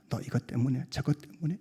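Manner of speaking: very soft, nagging tempter; hushed imitation of the devil; devil's whispering. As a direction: murmur it under the voice, into the ear. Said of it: "제 귀에 속삭이는 거예요".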